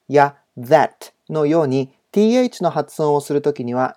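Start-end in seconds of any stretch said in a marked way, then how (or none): 0.6-1.1 "that" with the tongue tip lightly between the teeth; TH sound. Shown as a demonstration. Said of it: "舌先を軽く噛んで発音するなど". (「that」は舌先を軽く噛んで)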